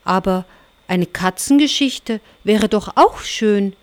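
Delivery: lightly meowing cat voice; a hint of a purring kitten. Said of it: "miaute die Katze". (leicht miauende Katzenstimme)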